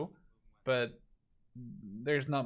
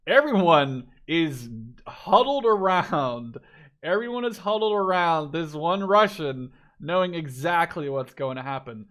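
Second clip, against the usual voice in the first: louder, higher, building hype; rising excitement; 4 semitones higher, 9 dB louder than usual. Real, not acted. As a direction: build it up as the ambush unfolds. Excited caster as ambush nears.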